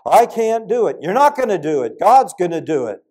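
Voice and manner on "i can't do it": loud, high anxious question; young believer voicing doubt; imitated despair. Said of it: "you think".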